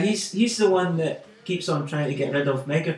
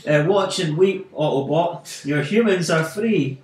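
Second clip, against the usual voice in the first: smug; 3 dB louder than usual. Retold or imitated. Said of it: "smug as anything".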